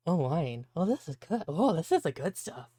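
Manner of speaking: lightly voiced happy drunk, rising to a call; drunken sailor. Drunken sailor offers men a drink, tipsily jovial. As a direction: savour the wine, then hail the crew. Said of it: "go to the drunken sailor man".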